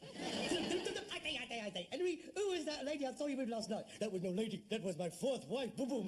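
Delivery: lightly hammed-up old variety comics trading gags; mock music-hall double act. Son mocking his father's ghost story, mock music-hall double act. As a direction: play both halves of a corny comic patter. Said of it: "Are they doing a double act?".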